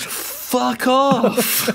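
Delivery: high squeaky brush-off; high mock outraged voice. Mock voice as Toddy.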